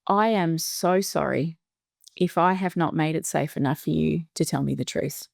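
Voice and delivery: re-enacted heartfelt apology to a son; calm, sincere apology. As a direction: take a breath and own it gently, unhurried. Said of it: "I took a breath, and I said to him".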